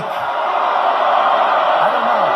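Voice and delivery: slow, whispered, drawn-out "I don't know"; mock Feinstein denial. Mocking Dianne Feinstein's answer about the leak, slow whispered. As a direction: play her dodging the question in a slow whisper.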